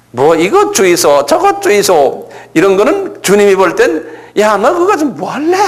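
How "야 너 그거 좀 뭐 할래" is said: Gyeongsang dialect joke. Retold or imitated. The preacher jokes as the Lord in mild Gyeongsang dialect. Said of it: "이 경상도 말로 농담으로 했지만".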